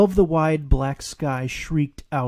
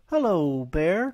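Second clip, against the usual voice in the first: smiling; 4 semitones higher, slower than usual. Acted.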